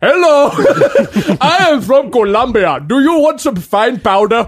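hammed-up Colombian drug dealer; bad Latino accent. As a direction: play a cartoon Colombian kingpin. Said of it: "bad Mexican accent like we do".

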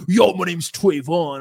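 slow put-on guy voice; lightly voiced bro; mock street guy. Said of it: "the men are like".

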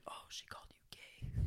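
secretive whisper, as if gossiping; imitated whisper. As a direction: act out a hushed, voiceless aside. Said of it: "she whispers to me".

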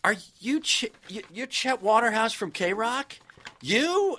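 high, rising amazed question; surprised disbelief. Retold or imitated. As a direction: ask it stunned, pitch climbing. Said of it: "he goes".

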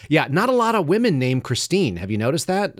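lightly voiced dad feigning wonder; joking dad. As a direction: imitate dad pushing the gag. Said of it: "And he was like".

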